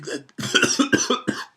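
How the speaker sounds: coughing after straining the voice; throat-strained cough. Real, not acted. Throat gives out after the impression, real cough. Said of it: "That really fucked up my throat".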